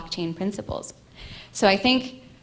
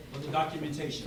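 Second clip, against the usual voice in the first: softer test; 4 semitones lower, 8 dB quieter, faster than usual. Real, not acted. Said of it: "I have a pretty loud voice".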